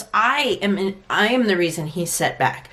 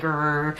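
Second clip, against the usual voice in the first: dog growl; 6 semitones lower, 5 dB quieter than usual. Retold or imitated. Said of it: "do you know when a dog is like".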